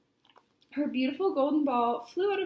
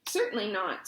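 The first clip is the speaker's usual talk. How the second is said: cross snap; 4 semitones lower than usual. Acted. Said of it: "snapped Poppy crossly".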